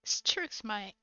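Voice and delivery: put-on matey British accent. Continuing accent imitation.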